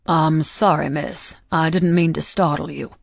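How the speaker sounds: a hint of a polite Southern accent; lightly voiced Southern accent. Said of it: "he said in a proper Southern accent".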